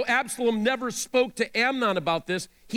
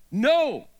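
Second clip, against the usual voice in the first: a sharp, louder no; cried out; 3 semitones higher, 4 dB louder than usual. A narrator's reading. Tamar refusing her brother, crying out. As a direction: cry out the refusal. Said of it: "she cried".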